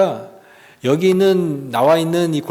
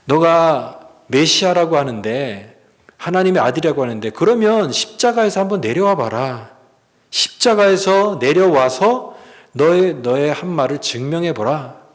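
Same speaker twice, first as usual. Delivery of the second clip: imitated jeering challenge; lightly mock and dare him; retold scornful taunting; 2 semitones higher than usual. Preacher voices crowd daring Jesus to descend, mildly scornful. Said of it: "그러면서 막 비웃는".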